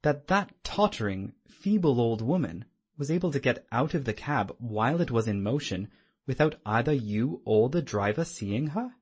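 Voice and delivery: amazed. Acted. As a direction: blurt it out in amazement. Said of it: "I cried in amazement".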